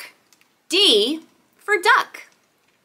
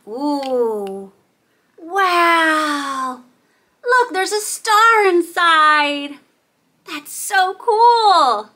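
amazed wonder; 3 dB louder, much slower than usual. Pretend. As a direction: marvel slowly, stretching the key words. Finds a star inside egg.

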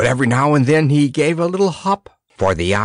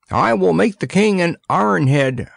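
eager offer; 6 semitones higher than usual. A narrator's reading. Redsmith volunteering to forge the king a head, eager. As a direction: jump in with the offer. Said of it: "volunteered the redsmith eagerly".

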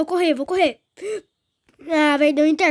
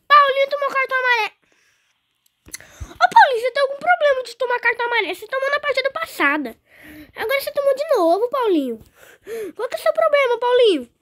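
higher, fast exasperated scolding; 5 semitones higher, faster than usual. Real, not acted. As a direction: rant at the player fast. Scolds his player Paulinho.

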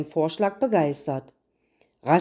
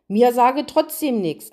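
louder, defiant refusal; stubborn; 4 semitones higher, 4 dB louder than usual. Acted. The children refuse the queen once more, stubbornly. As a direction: plant your feet and refuse again. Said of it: "antworteten beide gleichzeitig".

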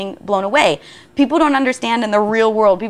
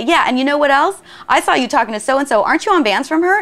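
higher, pointed accusing questions; mock confrontation, voice raised in pitch; 6 semitones higher than usual. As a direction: jab at them across the room. Acted accusation in a rap.

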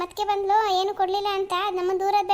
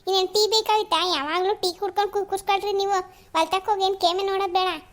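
acted grumbling scold that runs on; nagging rant. Wife complains husband only drinks tea, nagging rant. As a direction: keep complaining at him with mild exasperation. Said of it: "ಯಾಕ್ ಹಂಗ್ ಬಡ್ಕತ್ತಿ".

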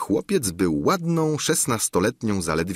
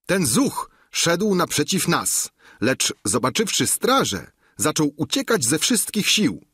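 lightly voiced eager guard, a bit higher; guard reporting; 6 semitones higher than usual. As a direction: report the catch proudly to the governor. Strażnik melduje. (lekko zagrany gorliwy strażnik)

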